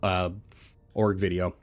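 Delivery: talking while chewing a lozenge; mouth full. Real, not acted. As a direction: speak around a lozenge in the mouth. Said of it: "Sorry, I'm chewing on a throat lozenge".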